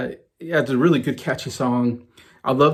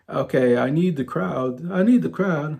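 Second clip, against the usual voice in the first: attempted Liverpool accent, lilting higher; amateur Scouse impression; 4 semitones higher, slower than usual. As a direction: imitate a Liverpudlian singer addressing the crowd. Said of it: "if I can do my Liverpool accent".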